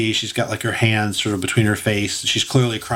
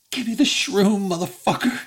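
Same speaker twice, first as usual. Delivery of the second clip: raised-pitch tough demand; Samuel L. Jackson; 9 semitones higher than usual. Acted. Effie grabs the fairy, hammed-up demanding voice. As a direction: demand it with mock menace. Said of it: "She totally became Samuel L".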